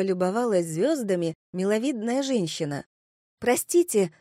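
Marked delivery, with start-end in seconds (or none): 3.4-4.1 lightly raised, higher call. Acted. Narrator hails a woman at a window, calling up. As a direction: hail someone politely from below. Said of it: "окликнула я её".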